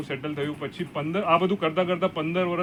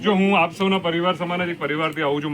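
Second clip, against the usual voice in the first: louder, projecting to the room; speaking up louder; 4 dB louder than usual. Real, not acted. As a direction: raise the voice so the hall hears. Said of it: "થોડું જોરથી બોલીશ". (થોડું જોરથી, hall સુધી સંભળાય એમ)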